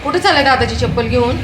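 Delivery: loud, high scolding question; scolding call. Real, not acted. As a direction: shout after a runaway slipper thief. Scolding Veer running off with slipper.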